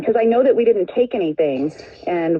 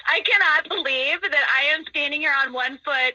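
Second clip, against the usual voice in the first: words breaking into laughter; real laughing disbelief; 2 semitones higher than usual. Real, not acted. Prank victim admitting she hopped along, laughing in disbelief. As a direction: laugh in disbelief at having been fooled.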